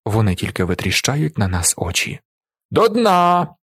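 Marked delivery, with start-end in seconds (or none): 2.7-3.5 loud, high bottoms-up yell; yelling toast. A narrator's reading. Willi yelling at the village elder, loud. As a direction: roar it at the drinkers. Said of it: "репетує Віллі".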